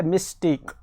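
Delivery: "मिस्टेक" broken as मिस, then टेक; two distinct beats in "मिस्टेक"; split into syllables. Shown as a demonstration. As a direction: sound out "मिस्टेक" in two parts. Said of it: "टेक जो है या मिस जो है".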